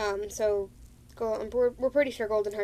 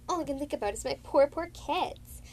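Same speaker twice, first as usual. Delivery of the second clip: lightly voiced anxious mother, higher; worried mother cat; 7 semitones higher, 3 dB louder than usual. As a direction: fret over her kids. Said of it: "Dovestar said".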